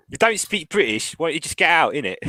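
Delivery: lightly put-on West Indian accent; mock West Indian accent. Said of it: "that sounded very West Indian to me".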